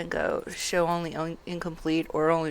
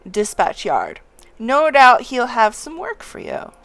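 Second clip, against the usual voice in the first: hearty, louder quest giver reading to the youngling; 5 semitones higher, 9 dB louder than usual. Acted. Old townsman sending the youngling beyond the walls, hearty and loud.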